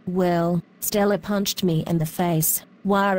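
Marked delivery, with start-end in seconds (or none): 2.8-3.1 short mock wail; fake crying. Faye tells the teacher about Stella, mock wail. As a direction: blubber a quick pretend wah. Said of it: "Why are you crying?".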